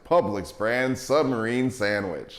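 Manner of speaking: "Publix brand submarine sandwich" slow and grand like an ad announcer. Shown as a demonstration. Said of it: "I feel like I have to say it like an announcer".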